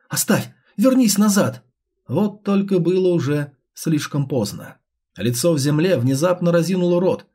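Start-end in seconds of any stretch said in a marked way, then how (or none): 0.1-1.6 rising urgent shout; shouting warning. Acted. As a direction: yell to pull him back. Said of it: "бросился к торговцу с криком".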